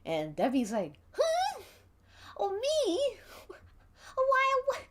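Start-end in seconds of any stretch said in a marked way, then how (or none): 1.1-4.8 startled squeak. Acted. Debbie startled at being suspected.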